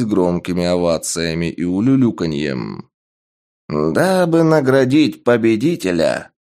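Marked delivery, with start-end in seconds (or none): 3.7-6.3 booming proclamation. Acted. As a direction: announce it to the whole stadium. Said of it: "Голос архижреца ... разнёсся по арене".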